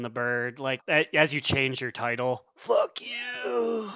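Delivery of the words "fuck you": yelled taunt; mock shout. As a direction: shout it as you die. Dying player flipping the bird.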